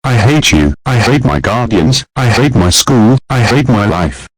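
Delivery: a lightly voiced brat throwing a fit; bratty tantrum. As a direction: son cursing out his mother, tantrum. Boy cursing at mother.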